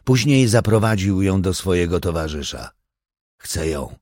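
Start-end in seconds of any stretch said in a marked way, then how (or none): 3.4-4.0 low and soft; quiet. A narrator's reading. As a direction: say it almost under breath. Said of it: "powiedział cicho".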